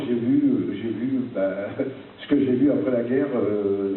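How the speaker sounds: reading a letter aloud; formal speech read from a page. Acted. Reads out his letter. (lecture solennelle d'une lettre)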